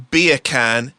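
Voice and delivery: "beer can" said to pass for Jamaican "bacon"; Jamaican-sounding beer can. Shown as a demonstration. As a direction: set out "beer can" with a rising end. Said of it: "it sounds like a Jamaican saying".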